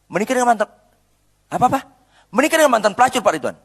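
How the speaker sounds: gossiping in-law. Retold or imitated.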